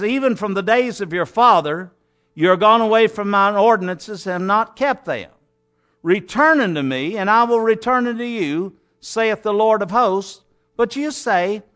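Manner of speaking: measured, declaiming Bible reading; scripture reading. Acted. Preacher reading God's words to the congregation, declaiming. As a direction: read God's words with weight. Long Malachi passage read aloud.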